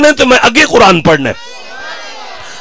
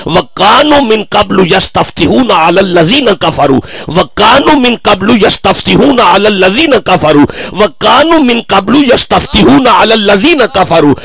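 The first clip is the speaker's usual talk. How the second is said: Quranic recitation. Acted. Preacher reciting the verse to the congregation, chanted. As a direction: intone the verse as in the mosque.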